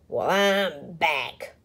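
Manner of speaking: slow menacing growl; a slow bully's growl. Acted. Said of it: "growled Big Bark".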